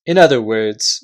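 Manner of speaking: Caspian, stern. Acted. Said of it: "said Caspian".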